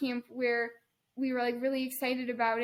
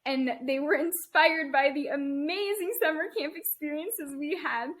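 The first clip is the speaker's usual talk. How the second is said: sarcastic. Shown as a demonstration. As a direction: say amazing like you mean the opposite. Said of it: "I'm being very sarcastic".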